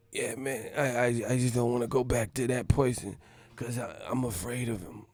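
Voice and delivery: hesitant, mildly acted distress; mock tearful confession. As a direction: confess haltingly, as if near tears. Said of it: "this man started crying on his podcast".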